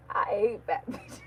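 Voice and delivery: slow, soft, breathy quote; hushed imitation. Quoting Bree's shocking remark, hushed and slow. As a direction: draw it out under your breath, half laughing.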